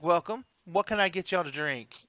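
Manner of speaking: lightly voiced Southern waitress; Southern waitress accent. Waitress taking drink orders, light Southern accent. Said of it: "You throw on that accent".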